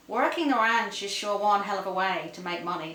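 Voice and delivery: put-on light American cowboy accent; lightly put-on American accent. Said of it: "excuse my American accent".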